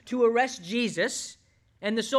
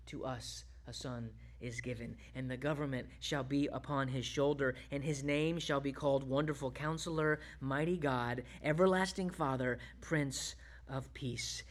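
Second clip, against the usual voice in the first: soft, reverent reading of the prophecy, much softer; hushed scripture reading; 7 semitones lower, 8 dB quieter than usual. Acted. Preacher quietly reads Isaiah to the congregation, hushed and reverent. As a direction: let the verses fall quietly, slowing at the end.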